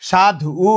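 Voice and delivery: সাধ উ split, with the final উ said as its own vowel; sound-by-sound breakdown. Shown as a demonstration. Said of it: "ধয়ের পরে রস্যুকার".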